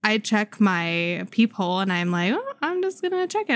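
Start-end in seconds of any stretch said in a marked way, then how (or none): 2.3-3.5 breezy self-quote. Retold or imitated. Retold own inner voice.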